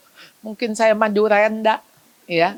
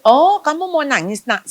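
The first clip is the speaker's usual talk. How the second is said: calm parent; 5 semitones higher than usual. Shown as a demonstration. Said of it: "Suruh dia nang".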